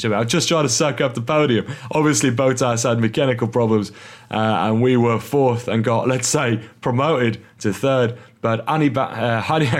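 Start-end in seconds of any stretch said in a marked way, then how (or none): 0.2-8.2 mock Australian accent, a bit louder. Host reading Ricciardo's quote in a mock Australian accent. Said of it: "I should be doing this in Australian accent". 8.4-9.7 slipping into a mock Cockney accent. Host voicing Ricciardo slipping into mock Cockney accent. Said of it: "going into my Cockney accent".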